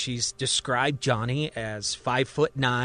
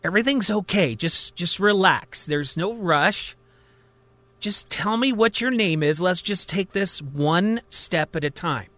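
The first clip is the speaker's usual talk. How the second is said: calming; 4 semitones higher than usual. Acted. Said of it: "seeks to calm him down".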